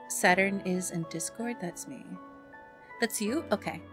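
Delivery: normal talking voice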